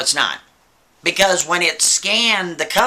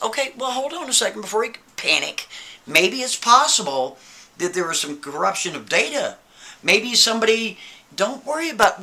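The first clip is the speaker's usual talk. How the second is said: reassuring librarian; 4 semitones higher than usual. Retold or imitated. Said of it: "She goes".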